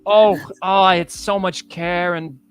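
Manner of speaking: high-pitched, giddy, drugged-happy villain; a creepy boss floating on a blissful high; Reginald Blackburn. Acted.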